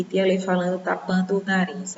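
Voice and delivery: talking with the nose held shut; nose pinched. Shown as a demonstration. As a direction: pinch the nose and speak through it. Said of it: "Olha que diferença".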